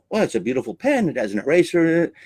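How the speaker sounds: put-on quick, light New Zealand accent; Kiwi accent. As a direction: imitate a Kiwi audience member. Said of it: "in a Kiwi accent says".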